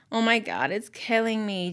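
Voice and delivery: whining moan. Waiting while someone teases about whether to tell, whining. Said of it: "she whines".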